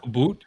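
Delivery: "boot" with a long oo for "about"; mock Canadian vowel. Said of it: "words that you say a little bit different".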